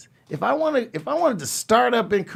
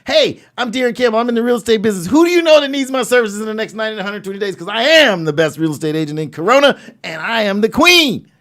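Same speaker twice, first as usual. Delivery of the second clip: confident pitch; 4 semitones higher, 5 dB louder, faster than usual. Shown as a demonstration. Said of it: "you said you were a people person".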